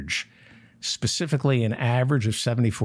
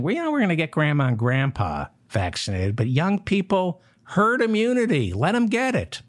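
mocking DeSantis; 5 semitones higher than usual.

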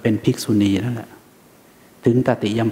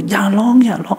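mock soothing a crying kid, pitched up; hushing a crying child; 8 semitones higher than usual. Parent hushing a crying child, quick and raised. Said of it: "ท่านก็บอก".

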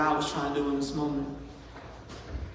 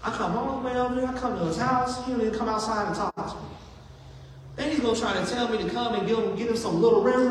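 higher, indignant rant, partly fast; indignant Naaman; 5 semitones higher than usual. Retold or imitated. Naaman complaining to his men about Elisha, indignant. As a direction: scoff at the prophet like a wounded war hero. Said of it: "He said".

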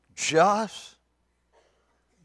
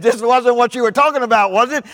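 acted scoffing; 12 semitones higher, 14 dB louder than usual. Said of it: "Daddy laughed".

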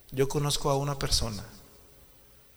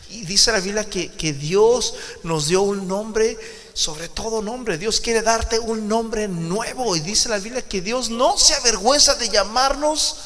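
fervent revival preaching, half sung; impassioned altar call; 9 semitones higher, 9 dB louder than usual. Acted. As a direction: plead with the congregation to stand. Altar call over music.

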